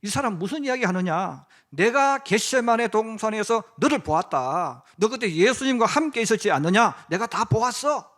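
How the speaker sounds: 약간 크고 느리게 몰아붙이는 하인 목소리; 따지듯 추궁하되 가볍게 연기; 다그치는 하인. Acted. 하인이 베드로를 다그치는 장면. (베드로를 몰아붙이는 하인, 다그치는 말투)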